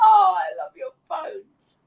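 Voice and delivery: high, laughing affection; laughing delight. Real, not acted. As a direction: burst out tickled, pitch leaping up. Reacting to others' joke, laughing.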